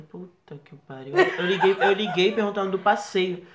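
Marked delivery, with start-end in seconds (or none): 0.0-1.1 slow, much softer swear under the breath; muttered curse. Retold or imitated. Caught by mom, cursing softly to himself. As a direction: let it slip out barely audible.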